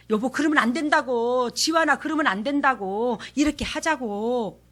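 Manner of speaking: firm correction said out of love; loving rebuke. Shown as a demonstration. Wife correcting husband and son, lovingly firm. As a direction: scold them gently, with love and not poison. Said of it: "사랑스러워서 하는 욕".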